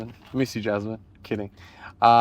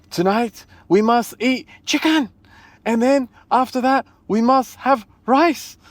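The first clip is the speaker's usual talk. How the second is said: high, ranting pseudo-German with a slow squeal at the end; mock Hitler voice; 9 semitones higher than usual. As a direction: parody a dictator's speech, pitching up and dragging the last words. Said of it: "What does Hitler sound like?".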